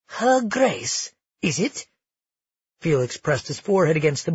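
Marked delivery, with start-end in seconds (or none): 0.1-1.9 mocking scoff. Felix scoffs.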